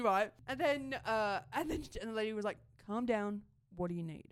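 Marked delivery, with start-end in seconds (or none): 2.8-4.2 calming. Retold or imitated. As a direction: settle someone who is panicking. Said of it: "really calms me down".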